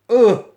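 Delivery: loud, short "ugh" of revulsion; disgusted groan. Real, not acted. Reacting to children being baptized, a loud disgusted groan. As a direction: let out a burst of disgust.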